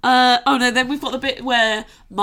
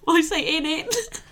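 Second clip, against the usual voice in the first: laughing; 6 semitones higher, slower than usual. Real, not acted.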